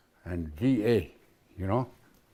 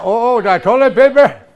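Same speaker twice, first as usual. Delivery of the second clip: laughing; 10 semitones higher, 12 dB louder than usual. Real, not acted. Elder laughing at toilet paper word.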